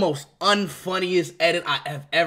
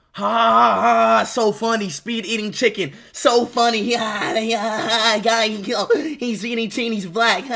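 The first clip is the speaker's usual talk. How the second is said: mock laughter through the words; fake laughing; 3 dB louder than usual. Streamer mocking an unfunny chicken joke, fake laughing. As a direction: force a sarcastic laugh as you talk.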